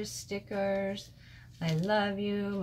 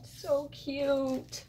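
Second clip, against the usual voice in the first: excited squeal; 7 semitones higher than usual. Real, not acted. Delighted by craft gifts.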